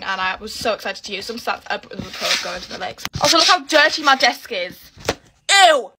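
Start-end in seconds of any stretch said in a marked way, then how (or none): 5.5-5.9 loud, higher "ew" of disgust. Real, not acted. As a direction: recoil at the mess. Looking at her dirty desk.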